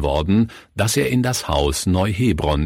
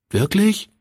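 surprised; 12 semitones higher than usual. Acted. Surprised child question.

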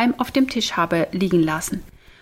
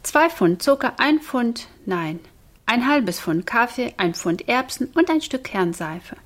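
sing-song list, higher at the start; learned-by-heart recital; 3 semitones higher than usual. A narrator's reading. Boy to shopkeeper with shopping list, rote recital. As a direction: recite it by rote, correcting a slip. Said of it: "sagte er sein gelerntes Sprüchlein auf".

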